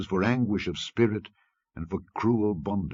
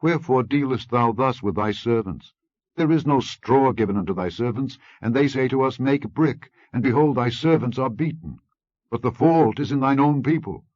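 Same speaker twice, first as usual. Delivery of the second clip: higher, louder desperate plea; crying out; 6 semitones higher, 4 dB louder than usual. Acted. Officers crying out to Pharaoh, raised pleading voice. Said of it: "came and cried unto Pharaoh".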